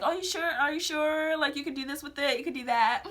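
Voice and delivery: high, coaxing mock sales pitch; saleswoman impression. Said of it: "Doing their sales pitch".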